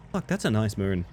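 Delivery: normal talking voice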